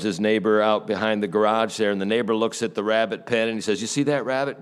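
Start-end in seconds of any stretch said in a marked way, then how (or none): 3.8-4.6 a little higher, insistent asking; pointed question. Retold or imitated. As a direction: point at it and ask. Neighbor points at rabbit pen.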